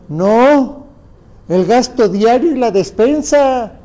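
emphatic correction. Real, not acted. Correcting the imagined client.

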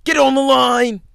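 full-volume high coach's shout; coach yelling. Acted. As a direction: bellow an order across the field. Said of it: "yelling out play".

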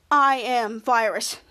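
low, slow robotic villain drone; slow low monotone computer virus; menacing virus voice. Acted. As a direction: drag each word out like a cold machine. Kid retells villain virus line.

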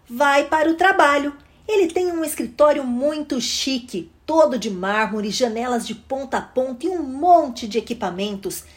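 put-on animated children's story reading; expressive read-aloud for children; story narration. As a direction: read the picture book with lively rise and fall.

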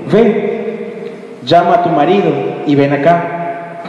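Jesus cutting her short, dry; confronting sarcasm. Acted. Jesus confronting the mocking woman, dry sarcasm. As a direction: call her bluff, firm. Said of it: "Ese tono sarcástico también de Jesús".

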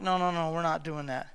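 low, quiet brush-off; mild hushed refusal; soft dismissive no. Retold or imitated. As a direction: wave it away gently under the breath. Jesus voiced refusing.

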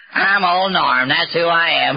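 lightly mocking echo of his brag; a hint of a wife's sneering imitation; wife mimicking him. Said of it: "she would mimic me".

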